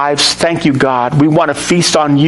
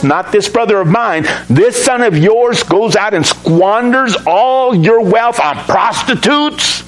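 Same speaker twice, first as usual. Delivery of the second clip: put-on resentful older son; 3 semitones higher than usual. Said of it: "Can't you just hear it?".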